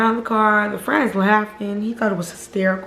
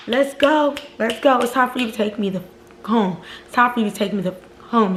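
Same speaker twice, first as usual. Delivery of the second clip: furious retold demand. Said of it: "I was so furious".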